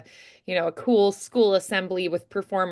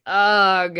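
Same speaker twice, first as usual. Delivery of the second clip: groan; 5 dB louder than usual. Shown as a demonstration. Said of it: "you're all like".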